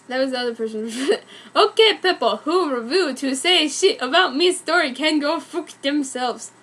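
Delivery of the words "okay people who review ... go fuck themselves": mock defiant. Shown as a demonstration. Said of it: "that sounds more accurate".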